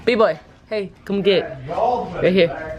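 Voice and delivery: calling the dog. Real, not acted. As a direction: call the dog over, high.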